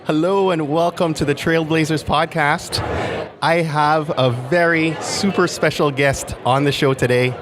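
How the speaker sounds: a fan nervously hosting his idol; shaky voice. Real, not acted. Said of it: "me in all my super shaky voice".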